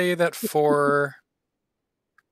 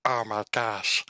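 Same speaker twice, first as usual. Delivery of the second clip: lightly voiced fox, relishing every word; fox in clean voice. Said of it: "I'm gonna do this in the clean voice".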